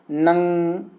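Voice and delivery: नंग said slowly, the ng ringing through the nose; teacher demonstrates nasal नंग slowly; nasal anusvara demo. Shown as a demonstration. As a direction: draw out नंग so the nasal ng is heard. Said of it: "नाक से हो रहा है ना".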